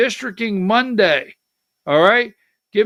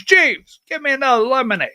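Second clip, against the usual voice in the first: ordering a robot butler; faster than usual. Pretend. Owner calling the robot butler for lemonade, bossy summons. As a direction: summon the butler, name pitched up, then a quick order.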